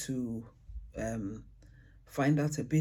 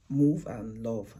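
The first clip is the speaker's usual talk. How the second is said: slow contrast; 3 semitones lower, 4 dB louder, slower than usual. Shown as a demonstration. Teacher sounding out move and love slowly for the ear. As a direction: move and love said slowly, each word apart. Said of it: "they do not actually rhyme when you listen".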